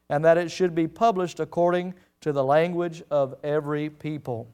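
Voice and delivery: measured, formal reading of the text; scripture reading. Acted. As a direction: read it out like holy writ.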